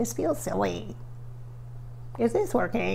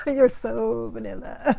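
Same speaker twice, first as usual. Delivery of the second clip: mock repeat; slower than usual. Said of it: "is what she said".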